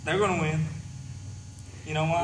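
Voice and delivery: loud cocky heel; wrestling promo. Acted. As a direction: boast it at the crowd. Heel promo for his team.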